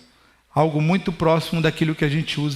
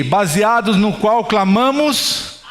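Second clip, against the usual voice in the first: slowed spoken repeat with a little laugh; slow spoken restatement; much slower than usual. Shown as a demonstration. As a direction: say it again slowly so they can follow. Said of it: "Então vou repetir aqui".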